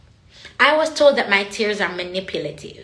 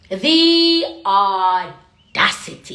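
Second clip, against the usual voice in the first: louder, very slow indignant "The audacity"; 4 dB louder, much slower than usual. Real, not acted. Speaker outraged at boxed-in ideas of God, slow loud indignation.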